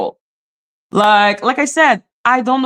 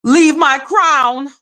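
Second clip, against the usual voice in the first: lightly theatrical monologue, raised and drawn out; mock Shakespearean queen; 4 semitones higher, slower than usual. Imagining the woman as last queen of Ireland, mock Shakespearean monologue. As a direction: stretch it out like a stage queen. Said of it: "Shakespearean, like, monologue, being like".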